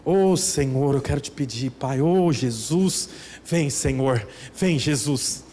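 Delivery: drawn-out, pleading mock prayer; a hammed-up pious plea. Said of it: "Tem outras posições".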